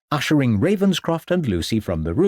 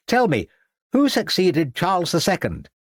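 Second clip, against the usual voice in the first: higher, dithering schoolmaster voice; fussy headmaster; 7 semitones higher than usual. A narrator's reading. Headmaster quizzing the class, higher and fussy. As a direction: play the flustered old headmaster.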